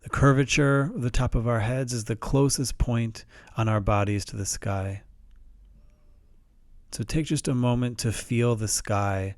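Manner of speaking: calm, measured meditation guide with long pauses; unhurried guided-meditation delivery. Shown as a demonstration. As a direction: gently guide listeners through it, pausing between phrases.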